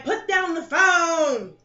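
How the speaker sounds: slow, drawn-out command; slow stern order. Retold or imitated. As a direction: lay it down slowly, stern. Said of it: "And they're like".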